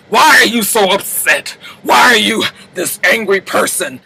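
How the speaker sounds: emphatic, spaced-out challenge; imitated exasperation. Fitz confronts upset Marcus, emphatic mock exasperation. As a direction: hit each phrase in disbelief.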